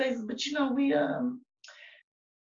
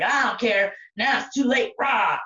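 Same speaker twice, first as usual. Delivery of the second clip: gleeful louder pounce with a roar; clingy mock monster; 3 semitones higher, 4 dB louder than usual. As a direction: play a creature latching on. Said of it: "And I was just like".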